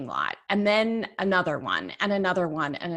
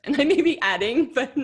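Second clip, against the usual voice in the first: laughing; 7 semitones higher, 4 dB louder than usual. Real, not acted. Laughing at exaggerating a quote.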